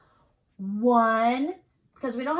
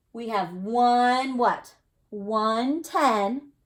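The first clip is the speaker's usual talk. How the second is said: "one" and "ten" slow and louder, drawn out; fancy way; 3 semitones higher, 7 dB louder, much slower than usual. Shown as a demonstration. Teacher showing kids the fancy way, slow and louder. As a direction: stretch "We have one what?" like a big reveal. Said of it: "Let's read it this fancy way".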